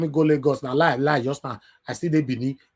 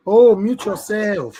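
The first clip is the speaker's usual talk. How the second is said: sharp command; 6 semitones higher, 9 dB louder, slower than usual. Real, not acted. Host scolds caller with open mic.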